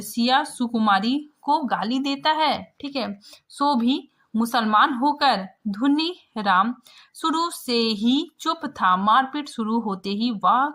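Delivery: steady reading of the story. A narrator's reading. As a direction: read the brawl passage to students. Reads the story text aloud. (कहानी पाठ)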